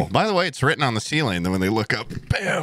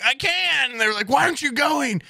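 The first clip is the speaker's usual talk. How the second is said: put-on high squeaky kid voices; high mock voices. Retelling brothers teasing a tickled kid, high squeaky. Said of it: "I'd be like".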